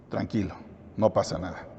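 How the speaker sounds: low, soft, acted reassurance; quietly soothing, as if all is fine; calm reassurance. Voicing her calm reply to husband.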